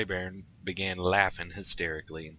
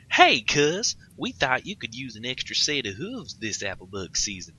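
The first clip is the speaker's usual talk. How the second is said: loud, high hearty farm pony call; Big Mac voice; 6 semitones higher, 6 dB louder than usual. Acted. Big Mac calls to his cousin on arrival, hearty. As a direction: boom out a friendly greeting.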